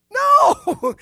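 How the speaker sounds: a high, loud exclamation; emphatic no. Real, not acted. Preacher rejecting the idea before the congregation, loud. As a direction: cry out the answer. Emphatic answer to rhetorical question.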